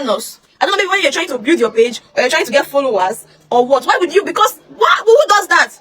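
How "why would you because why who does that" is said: high angry outburst; outraged shout. Real, not acted. Confronting the nurse who leaked her statement, outraged shouting. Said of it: "outraged at nurse".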